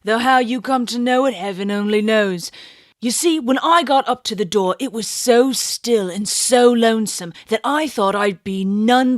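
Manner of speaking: a lightly voiced London bobby, recounting; Cockney constable. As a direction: tell it like a plain-spoken old policeman. Constable continues his account.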